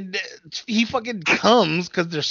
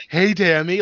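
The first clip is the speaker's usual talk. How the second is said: louder, cheesy imitation of a movie lead; too cheesy; 5 dB louder, slower than usual. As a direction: greet her with mock cheesiness. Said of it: "too cheesing and just himself".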